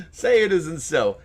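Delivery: hammed-up, slow, laughing say it isn't so; mock disbelief. Reacting to the gas car ban headline with mock dismay. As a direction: fake horror at the headline. Mock shock at news article.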